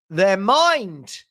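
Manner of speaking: MIND drawn out with a swoop; mock-dramatic. Real, not acted. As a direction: stretch MIND up and down theatrically. Mock-dramatic claim of outrage.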